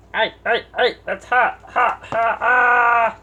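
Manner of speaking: loud, high yelps of pain. Real, not acted. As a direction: yelp from a hot glue burn. Burns herself with hot glue.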